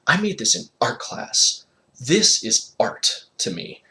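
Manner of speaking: mock offended teen. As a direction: play the wounded artist. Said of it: "I acted like I was offended".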